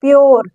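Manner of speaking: "प्योर" spoken as a model, ending in "-yor"; teacher's clear demo of "प्योर", o before the r; "ure" read as "or". Shown as a demonstration. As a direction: say "प्योर" with U-R-E as an "or" sound. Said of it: "क्या पढ़ रहे हैं".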